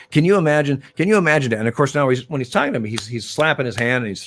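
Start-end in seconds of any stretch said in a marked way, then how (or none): 0.1-1.6 high, loud, exasperated rant of a manager putting on a show; a retold manager's theatrical outrage, pitched up and loud; mock outraged rant. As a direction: ham up the disbelief like an angry skipper. Manager ranting at umpire on field.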